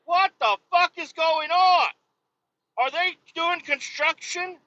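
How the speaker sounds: high-pitched mock outrage; exasperated outburst. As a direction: complain in a high, exasperated yell. Retold reaction to slamming doors.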